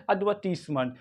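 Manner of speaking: एडवर्टीजमेंट as "ud-VUR-tiss-munt" with silent R; soft S. Shown as a demonstration. Teacher models British word, soft S and no R. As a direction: hiss a soft S, not Z, in एडवर्टीजमेंट. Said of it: "क्या पढ़ेंगे".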